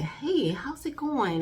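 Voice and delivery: slow, sincere hey how's it going; a caring check-in, unhurried; genuine greeting. Shown as a demonstration. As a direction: ask it like you really want to know. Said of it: "Don't be just".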